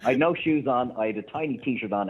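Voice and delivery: chuckling through the words; amused, laughing as he tells it. Real, not acted. Laughs through his own story.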